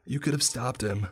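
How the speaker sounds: shrill fast accusing scream. Acted. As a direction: scream it into their faces. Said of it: "screaming in our faces".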